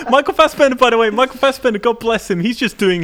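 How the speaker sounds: high, helpless laughing speech. Real, not acted. Co-host cracking up about the film's star, laughing. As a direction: talk through a fit of laughter. Cracking up over the baffling film.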